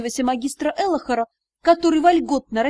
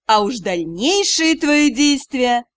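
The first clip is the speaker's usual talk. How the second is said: mocking; 4 dB louder, slower than usual. Magister keeps mocking.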